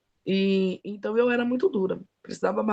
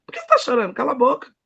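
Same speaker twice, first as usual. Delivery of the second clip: repreensão seca, um pouco mais firme; bronca ríspida; 3 semitones higher, 4 dB louder, faster than usual. Retold or imitated. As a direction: imitando uma ordem brusca para calar. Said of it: "Desse jeito". (bronca ríspida imitada)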